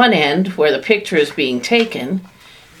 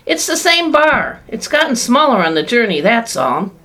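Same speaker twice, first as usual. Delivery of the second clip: high, eager, fading down at the end; excited urging; 10 semitones higher than usual. A narrator's reading. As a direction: urge him on, delighted. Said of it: "shouted Mister Wonka".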